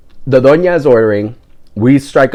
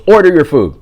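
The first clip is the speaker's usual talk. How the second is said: higher, firm retold order; imitated bossy command; 5 semitones higher than usual. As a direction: imitate the old lady giving an order. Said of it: "looks at me and goes".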